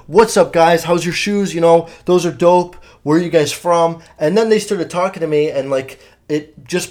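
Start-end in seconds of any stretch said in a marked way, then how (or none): 0.1-4.0 loud, upbeat fake-confident hello; chirpy greeting to hide nerves; mock friendly bravado. Retelling how he greeted the intimidating guys, loudly friendly.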